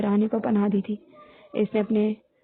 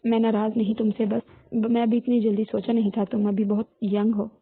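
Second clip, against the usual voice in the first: calm her down gently, hushing first. Acted. Husband soothing his crying young wife, tenderly. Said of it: "नरमी से बोला".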